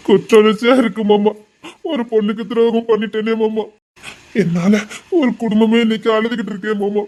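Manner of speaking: guilt-ridden, on the edge of sobbing; tearful. Acted. Young man confessing guilt to his uncle, tearful. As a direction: confess through tears, with gasps between phrases. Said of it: "நீ அழாத".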